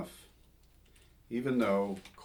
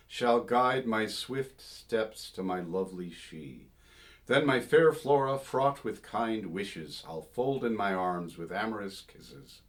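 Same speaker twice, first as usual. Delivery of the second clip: poem reading; 3 dB louder than usual. Acted. Reads Cibber lyric aloud.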